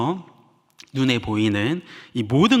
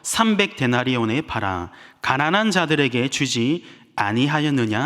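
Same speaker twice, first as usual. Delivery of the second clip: scripture reading. Shown as a demonstration. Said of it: "제가 한번 읽어드리겠습니다".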